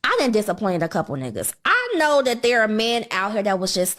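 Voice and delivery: ordinary talk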